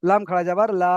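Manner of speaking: লাম খাড়া যাবার লা with the last লা held long; elongated final LA. Shown as a demonstration. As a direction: spell it out, then stretch লা. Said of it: "এই দুটো একই টান হবে".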